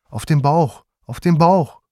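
building from firm to a loud high shout; insist, rising each time; urgent command. A narrator's reading. Mother orders the men to lay father down, building shout.

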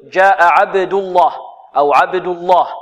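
الله with a thick, dark double L; heavy lam in الله. Shown as a demonstration. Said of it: "وفخم اللام من اسم الله". (الله بلام مفخمة)

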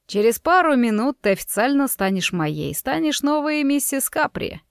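lightly voiced villain, pitch lifting at the end; a hint of gloating possessiveness. Dante tells Rosa she will soon be his, lightly gloating villain.

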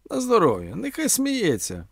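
high, theatrical concession; declaiming orator Omela. A narrator's reading. Omela answering the tale of a laughing horse, declaiming. Omela carries on his oration.

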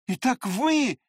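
high, loud outcry; shouting accusation. A narrator's reading. Narrator accuses the prince, shouting. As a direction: shout your discovery. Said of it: "вскричал я".

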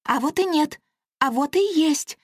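high, singsong fairy tease; playful comeback; teasing pixie. Acted.

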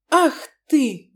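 high, loud indignant outburst; outraged cry. Acted. Marina scolding Max on the phone, loud outraged cry. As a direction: blurt it out at him. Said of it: "выкрикнула Марина".

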